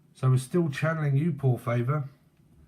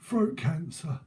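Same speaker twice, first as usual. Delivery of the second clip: lightly voiced old geezer, pitched up; rueful old London gaffer, lightly put on; imitated old geezer; 4 semitones higher than usual. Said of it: "like a proper old geezer".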